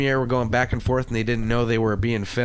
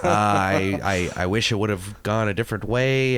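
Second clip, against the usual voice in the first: fake apology; 4 semitones lower than usual. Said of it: "You're so fucking fake".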